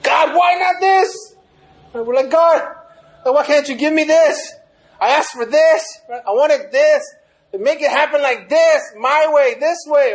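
mock the complainer pleading and insisting; grumbling at God. Preacher mimics a believer grumbling, high whiny complaint. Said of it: "And we grumble towards God".

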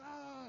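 high-pitched retold "ah" of frustration. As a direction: play at yelling without full volume. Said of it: "so I start raising my voice".

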